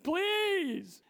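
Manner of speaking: mock pleading, pitch up; whiny begging to God, lightly hammed; a hint of desperate pleading; begging prayer. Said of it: "You don't have to be like".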